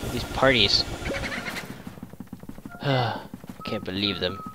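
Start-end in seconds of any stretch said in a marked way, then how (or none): 0.9-2.8 long breathy sigh; sigh, all air; weary sigh. Real, not acted. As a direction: let out a long, exasperated sigh. Grumbling at the game.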